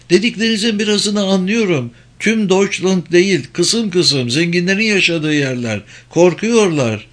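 high-pitched foreign woman; high female character voice; German woman. Acted. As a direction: explain haltingly in words but insistently, pitched well up. German woman explains in broken language.

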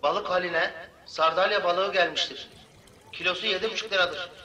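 pa system. Acted. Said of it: "Hoparlörden bütün ada dinliyor".

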